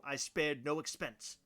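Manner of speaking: slow, lightly voiced proud old showman; a hint of a grand host, drawn out; John Hammond impression. Wants to be John Hammond at his party, slow mock grandeur. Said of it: "and I'll go".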